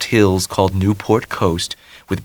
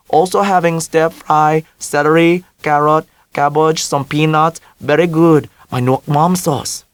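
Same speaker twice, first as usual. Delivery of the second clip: put-on mother in a heavy Vietnamese accent, high; Vietnamese-accented mother, higher and louder; 8 semitones higher, 4 dB louder than usual. A narrator's reading.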